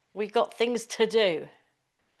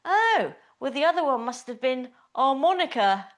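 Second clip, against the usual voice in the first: mouse; 4 semitones higher, 4 dB louder than usual. Retold or imitated. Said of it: "the mouse says".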